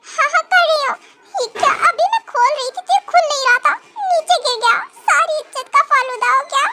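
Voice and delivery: embarrassed laugh. Acted. Gown falls, embarrassed.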